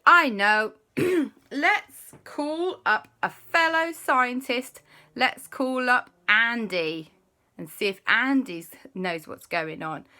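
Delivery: high, slowed scientist voice. Acted. J B planning with the boys, high and slow. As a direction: play J B thinking it through. J B proposes calling Andy.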